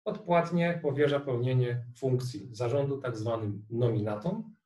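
ordinary talk, nothing marked

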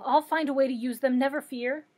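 loud, eager assurance; excited, grateful promise; eager cry. A narrator's reading. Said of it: "cried the Scarecrow".

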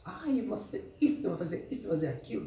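mock whiny rival. Mimicking rival's whining.

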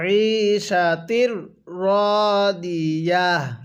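very slow, drawn-out tilawat; slow recitation. Shown as a demonstration. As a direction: chant it slowly for students to repeat. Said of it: "হ্যাঁ, পড়ুন". (ধীর তিলাওয়াত)

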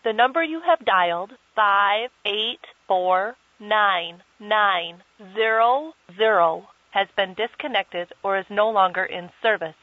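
automated phone recording voice; disconnected number message. Acted. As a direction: read it like a telephone intercept recording.

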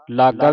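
ਲਾਗਾ with a firmly pressed g; tight pronunciation. Shown as a demonstration. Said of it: "ਕੱਸ ਕੇ ਬੋਲਣਾ ਹੈ".

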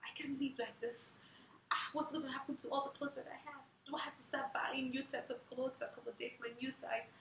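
high-pitched mock despair, no real sobs; imitated tearful lament. New mother crying to her midwife about clothes, tearfully fretting. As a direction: fret it out high, as if near tears. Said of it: "busted into another season of tears and cried".

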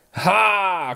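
loud, playful exclamation of amusement; amused cry. A narrator's reading. Bík reacts to the impossible task, amused cry. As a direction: burst out with a mock-gleeful shout. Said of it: "křikl Bík pobaveně".

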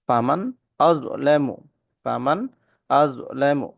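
ফামান আযলামু with the nun clear and the hamza sharp; crisp hamza, no nasal hold; clear izhar recitation. Shown as a demonstration. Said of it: "গুণনা হবে না".

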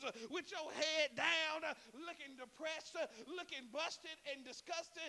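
loud, driving sermon cadence; full-force preaching. Acted. Preacher rousing the church to stand up, loud preaching. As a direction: preach it hard with rhythmic hallelujahs.

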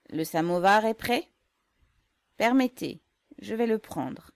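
jovial call. A narrator's reading. Yégor jovial.

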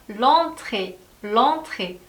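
l'entrée said as one word, vowels merged; elided l'entrée. Shown as a demonstration. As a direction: run "l'entrée" together, no break after l. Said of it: "모음과 모음이 만나서 축약이 되었죠". (모음 축약해서 "l'entrée")

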